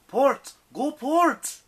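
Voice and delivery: high, loud urgent command; shouted order. Acted. Nico yelling steering orders from the rigging, loud. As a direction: bark the direction to the helm.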